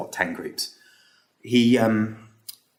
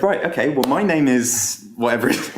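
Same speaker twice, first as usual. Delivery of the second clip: higher, louder, brisk presenter opening; snapping into a lively talk; 4 semitones higher, 4 dB louder than usual. Retold or imitated. Guest speaker finally introducing himself to the room, upbeat. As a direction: switch on like a speaker taking the stage. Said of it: "he snapped into his actual talk".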